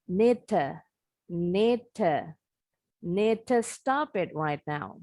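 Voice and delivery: need to said with to reduced to a light te. Shown as a demonstration. Teacher slows down need to to show the te sound. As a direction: blur need to into net, the D swallowed by the T. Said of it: "bunyinya jadi te".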